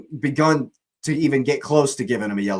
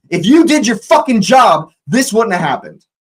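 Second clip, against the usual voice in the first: loud angry rant at the ref; angry shout; 8 semitones higher, 7 dB louder than usual. Real, not acted. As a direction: let the referee have it. Yelling blame at the referee.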